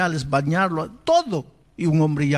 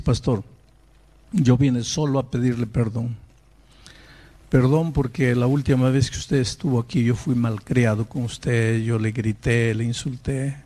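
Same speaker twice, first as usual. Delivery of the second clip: low, subdued apology; understated contrition in a lowered pitch; retold apology; 5 semitones lower than usual. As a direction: voice a humbled man asking forgiveness. Young man apologising to the pastor.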